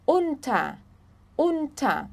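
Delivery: Unta with a clear u; German pronunciation. Shown as a demonstration. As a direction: model Unta for the class.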